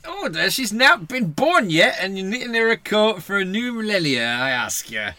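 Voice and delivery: high, indignant Geordie husband; put-on Geordie protest; Geordie accent. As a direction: argue in broad, sing-song Geordie. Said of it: "you went quite Geordie".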